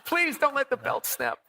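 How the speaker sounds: high pleading cry, laughing through it; mock panic. Fleeing zombies by helicopter, hammed-up panic. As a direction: beg the belt to hold, half laughing.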